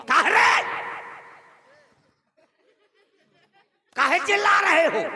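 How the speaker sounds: mock stern father yelling at the kids; gruff father's shout. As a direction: snap back like an annoyed dad. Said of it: "बड़े ताय में बोला करूंगा".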